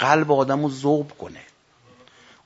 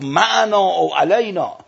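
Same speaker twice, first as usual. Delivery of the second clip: slow, raised cry with higher pitch; retold stern shout; 4 semitones higher, 4 dB louder, slower than usual. Imam shouting at his unruly soldier, a retold stern call. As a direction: call it out slowly and high. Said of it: "سرش داد زد".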